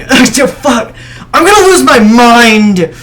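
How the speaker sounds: loud laughing frustration; exasperated shout. Real, not acted. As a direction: yell it out, half laughing. Mic keeps failing, exasperated.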